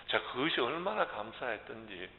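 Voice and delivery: ordinary delivery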